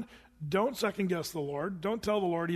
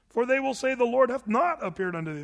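Don Knotts; 4 semitones higher, 3 dB louder than usual. Acted. Preacher reading Moses' objection to the congregation, as Don Knotts. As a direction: raise the pitch for a comic impression of a famous actor. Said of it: "This is Don Knott speaking right here".

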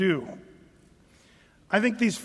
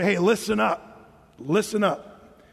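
drawn-out listen up; slower than usual. Shown as a demonstration. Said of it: "the way we would say".

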